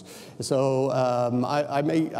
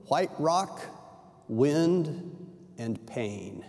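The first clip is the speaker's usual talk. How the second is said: reading a quote. Acted. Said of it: "writes this".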